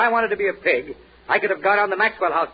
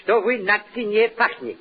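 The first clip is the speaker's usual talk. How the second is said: mock Russian; slower than usual.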